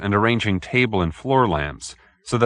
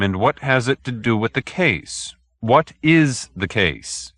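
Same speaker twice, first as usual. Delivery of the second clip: mildly annoyed detective. Acted. Detective pressing the vague client, mildly annoyed. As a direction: lose patience but stay civil. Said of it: "Randall was becoming somewhat annoyed".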